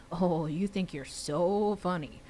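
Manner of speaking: slow, drawn-out mild teasing. Acted. Boy teasing his friend on the phone, slowly and playfully. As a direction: stretch it out to poke fun at her. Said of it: "I teased".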